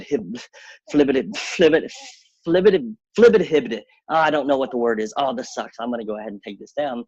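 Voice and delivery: flustered nonsense babble rising in pitch; mock fumbling creator. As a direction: stumble through gibberish, flustered.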